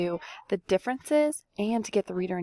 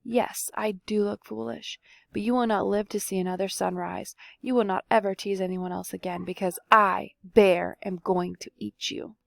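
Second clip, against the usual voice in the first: growl. Acted. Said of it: "Bear growled".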